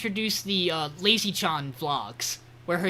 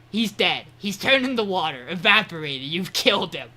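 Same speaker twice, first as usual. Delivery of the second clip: loud, hammed-up death announcement; mock accusation; 5 dB louder than usual. Podcaster as Rin fooling the kids, loud mock accusation. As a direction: declare it loudly, breaking into amusement at the end.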